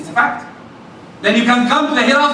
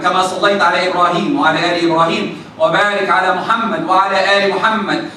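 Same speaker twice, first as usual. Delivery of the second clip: 1 rapid recitation; 3 semitones lower, much faster than usual. Shown as a demonstration. Recites tashahhud rapidly in Arabic.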